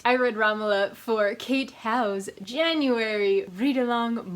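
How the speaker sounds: slow breathy whisper; whispered aside. Acted. Whispering to viewers about the read-along. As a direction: hush it like a secret.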